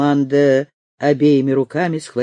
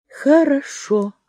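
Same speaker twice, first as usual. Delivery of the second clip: slow, measured "Хорошо"; deliberately; 8 semitones higher, slower than usual. A narrator's reading. Amanda collecting herself, slow and measured. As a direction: draw it out, weighing it. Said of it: "с расстановкой проговорила она".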